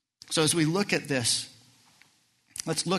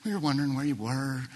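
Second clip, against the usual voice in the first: mild mock calm. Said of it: "I doubt it was".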